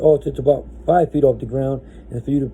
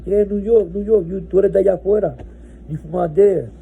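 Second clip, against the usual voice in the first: higher, pushy, half in Spanish; insistent inmate; 6 semitones higher than usual. Retold or imitated. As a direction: keep insisting like you know better. Inmate insists he's from New York.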